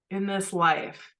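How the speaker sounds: second "in this life" drawn out and easing off. Retold or imitated. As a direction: let "in this life" settle back down, unhurried. Repeating the phrase, settling back.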